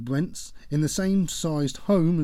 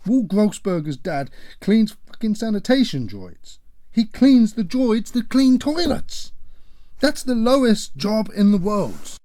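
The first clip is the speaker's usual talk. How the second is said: loud, high, slowing scornful rant; father scorning the boyfriend's family; indignant shouting; 8 semitones higher, 8 dB louder than usual. Acted. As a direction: spit out the insult.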